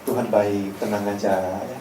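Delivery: very soft, low cooing; mock-consoling preacher murmur; soothing comfort. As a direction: pat them to sleep with a hushed voice. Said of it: "dihibur, ya, dipuk-puk".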